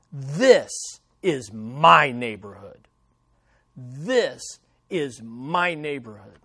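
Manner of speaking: lightly put-on Italian accent, low and slow; a touch of snarling Italian mobster. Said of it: "slip into a little Italian accent".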